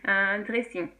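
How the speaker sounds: "dressing" with a French r; English loanword in a French accent. Shown as a demonstration. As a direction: pronounce it fully in French. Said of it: "avec l'accent français".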